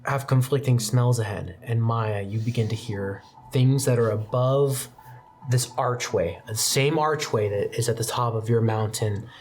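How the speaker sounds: steady descriptive narration voice; game master scene setting. Acted. Game master describing the courtyard to the players, measured narration.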